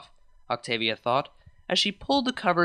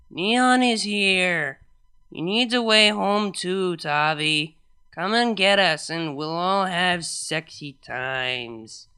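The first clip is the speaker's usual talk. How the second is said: put-on drunk rambling; 2 semitones higher, slower than usual. Drunk voicemail continues.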